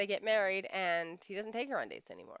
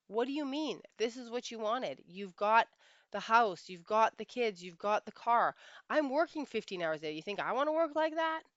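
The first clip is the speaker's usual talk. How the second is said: higher, louder imitation of indignant protest; defensive retort; 4 semitones higher, 5 dB louder than usual. Husband answering his unhappy wife, acted defensive indignation. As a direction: fire back as the affronted husband, building in pitch. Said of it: "he takes it personally".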